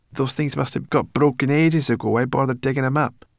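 high, loud creature voice; scornful brownie girl. Acted. Sorrel questioning why humans dig up old things, scornful. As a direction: scoff at a pointless habit.

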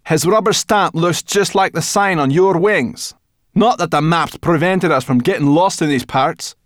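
put-on girl voice. Sorrel voiced.

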